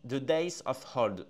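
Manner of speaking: slow, heavily French-accented English recital; slow lyric reading, strong French accent; heavy French accent in English. Shown as a demonstration. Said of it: "l'accent anglais est terrible".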